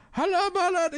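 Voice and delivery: lightly hammed mock Arab accent, high; a hint of mock Arab accent gibberish. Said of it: "doing, like, a Arab voice".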